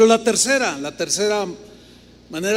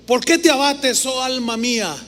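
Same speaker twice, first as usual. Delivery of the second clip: talking to himself; 5 semitones higher, 4 dB louder than usual. Acted. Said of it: "se habla a sí mismo de una manera bien, bien tremenda".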